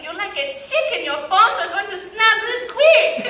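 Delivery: imitating grandma. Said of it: "Then enters Yaya".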